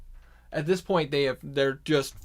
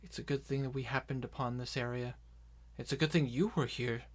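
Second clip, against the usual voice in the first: hushed urgency; 6 dB quieter than usual. Acted. Character talks quietly with ally.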